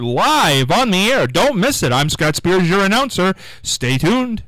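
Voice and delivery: upbeat radio announcer promo. Shown as a demonstration. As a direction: sell the show like a DJ. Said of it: "This is how you do it".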